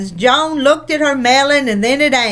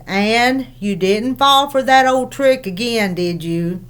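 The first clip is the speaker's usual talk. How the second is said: low, calm voice. Acted. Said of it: "in a low, calm voice".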